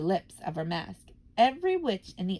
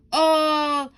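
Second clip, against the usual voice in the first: loud, higher command; sudden bark; 6 semitones higher, 7 dB louder than usual. Acted. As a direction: bark the order at the old ones. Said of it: "she barked suddenly".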